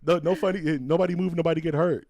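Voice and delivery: high mock New York tough guy; New York accent. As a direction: ham up a New York hood, high and loud. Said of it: "New Yorker".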